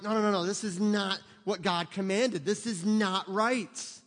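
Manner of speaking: mildly heated no no no, the last line slow; acting out an angry zealot; frustrated protest. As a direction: protest like a man sure he is right. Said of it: "and you get angry".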